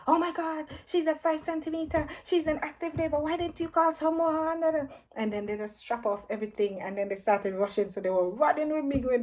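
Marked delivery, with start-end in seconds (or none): 0.1-4.9 startled midwife. Retold or imitated. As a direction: exclaim in alarm at the news. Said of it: "they was like".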